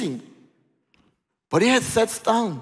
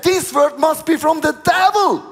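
louder, higher indignant protest; indignant rebuke; 6 semitones higher, 3 dB louder than usual. Acted. Peter rejecting Jesus' words, loud indignant protest. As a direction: push back with outrage.

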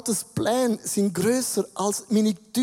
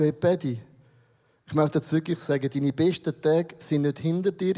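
sincere; 5 semitones lower than usual. Retold or imitated. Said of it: "wenn du im Heiligen Geist bist".

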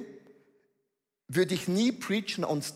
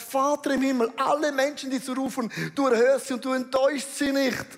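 raised, urgent prayer pitched high; inniges Anrufen Gottes; 5 semitones higher, faster than usual. Acted. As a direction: call up to the Father, higher and pressing. Jesus ruft zum Vater. (erhobenes, eindringliches Gebet)

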